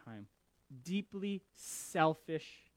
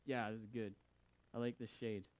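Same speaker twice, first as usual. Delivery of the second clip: happy, contented; 7 semitones lower, 8 dB quieter than usual. Retold or imitated. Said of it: "Jonah's happy".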